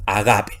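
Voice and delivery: "agape" starting straight on the vowel; silent breathing. Shown as a demonstration. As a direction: say "agape" with no h sound before the first a. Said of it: "en este caso no se pronuncia".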